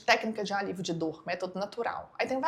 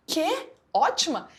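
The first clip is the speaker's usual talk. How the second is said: indignant disbelief; 3 dB louder than usual. Retold or imitated. Retold shock at the nurse's message.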